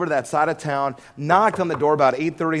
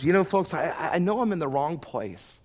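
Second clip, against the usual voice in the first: casual question. Retold or imitated. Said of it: "in just this casual fashion".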